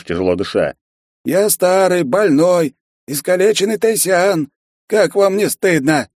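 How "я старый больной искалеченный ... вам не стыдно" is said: high, loud self-pity; pitiful old lizard. A narrator's reading. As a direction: play the poor cripple. Lizard pleads. (высокий жалобный голос)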